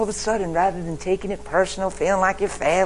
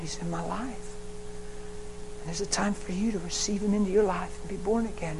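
tender mother; 6 dB quieter than usual. Retold or imitated. Mother comforts daughter.

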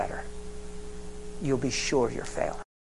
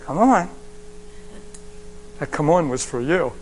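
calling out; 3 dB louder than usual. Real, not acted. Preacher calls to crowd.

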